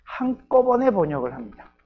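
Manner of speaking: 한꺼번에 punched high and loud; stress on 한꺼번에. Real, not acted. Contrasts compiler with line-by-line interpreter. (한꺼번에를 높고 크게 강조)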